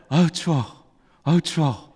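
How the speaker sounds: acted grumble about the cold; lightly shivery street remark; chilly passerby. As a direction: voice someone feeling the winter chill. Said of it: "이런 목소리가 들리다가".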